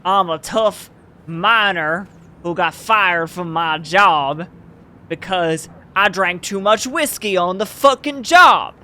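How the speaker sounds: mock tough miner. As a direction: ham up a boastful drunk miner.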